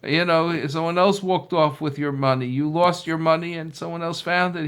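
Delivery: urgent outcry. Acted. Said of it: "He wants to scream out".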